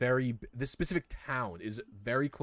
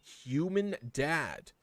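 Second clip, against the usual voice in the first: lightly voiced chirpy spider; 3 semitones higher than usual. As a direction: greet everyone like an eager newborn. Spider greets the party.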